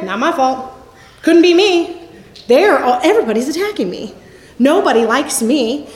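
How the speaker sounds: victim mentality. Retold or imitated. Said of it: "living in a victim state mentality".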